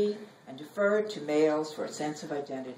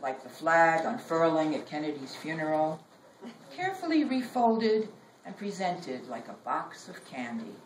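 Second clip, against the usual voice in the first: poem reading; 2 semitones lower than usual. Acted. Poet reading her own poem to an audience, measured.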